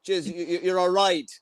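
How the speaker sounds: playful Irish chat-up accent; Irish version. Shown as a demonstration. Co-host showing the Irish way of flirting, broad Irish accent. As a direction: flirt gruffly in thick Irish. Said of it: "the Irish version's".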